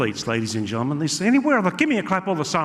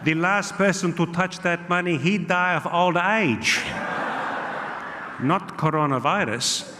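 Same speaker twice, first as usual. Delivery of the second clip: put-on angry Italian accent. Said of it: "I got a very angry".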